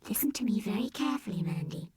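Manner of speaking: fast whispered robot bear; softest voice. A narrator's reading. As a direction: hush it to the child. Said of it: "in his softest voice".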